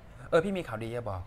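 lightly voiced partner on the phone; low, soft, slow phone voice; business partner calling. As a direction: break good news quietly, drawing it out. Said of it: "หุ้นส่วนกูโทรมาบอก".

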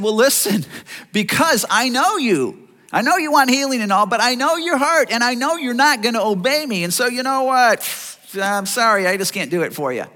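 a hint of Jesus turning them down, kindly but firmly; imagined Jesus refusing. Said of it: "don't you think he could have said".

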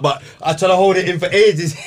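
holding in a laugh; suppressed laughter. Real, not acted. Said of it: "I'm busting up".

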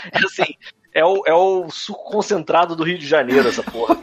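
stifled giggles. Real, not acted. Laughing while describing funny video.

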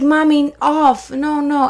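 put-on protesting toddler. Toddler to mommy about painted nails, protesting. Toddler wants the nail polish off.

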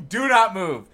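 breaking into laughter mid-order; laughing. Pretend. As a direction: command spoiled by a laugh. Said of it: "See, that was better than him".

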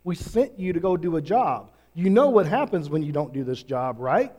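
a reproachful warning from the chief priests; stern Pharisee threat. Retold or imitated. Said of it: "and they said".

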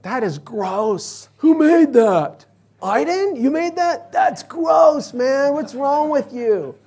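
mock outraged pie judge, high and loud shouting; hammed-up disgust, high pitched and loud. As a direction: play a judge spitting out a bad pie, yelling at the baker. Pastor acting disgusted pie judge.

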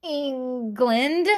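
lightly put-on British accent; mock British, one careful word; fake British accent. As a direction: answer in a half-hearted British accent. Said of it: "talked in a British accent".

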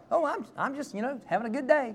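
high, falsely upbeat cover; fake cheerful. Pastor lying to Uncle Wade, high fake cheer. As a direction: put on a cheery front. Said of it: "I lied".

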